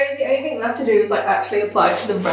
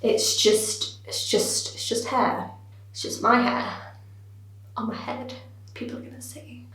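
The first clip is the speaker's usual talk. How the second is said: hushed self-talk; 10 dB quieter than usual. Real, not acted. Calming herself over the hair.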